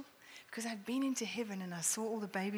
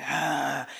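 put-on baby growl; 6 semitones lower, 7 dB louder than usual. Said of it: "He growled".

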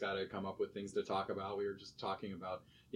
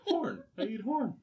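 a bad Colombian accent, higher and louder; terrible Colombian accent; 11 semitones higher, 5 dB louder than usual. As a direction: ham up a Colombian accent for the client. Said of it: "that's a terrible accent".

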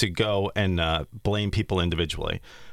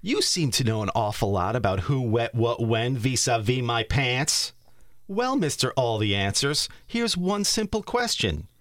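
rising to a high accusation; Ruben voice; 3 semitones higher than usual. Acted. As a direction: climb higher into the question. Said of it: "So this is Ruben".

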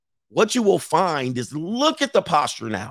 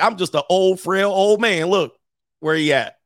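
lightly voiced frail old man; a hint of a feeble old man; 4 semitones higher than usual. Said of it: "wanted to appear like".

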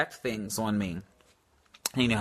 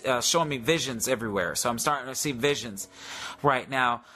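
lightly raised commanding prayer voice; healing prayer; 3 semitones higher than usual. Acted. Praying healing over the viewers, in a lightly raised, commanding prayer voice.

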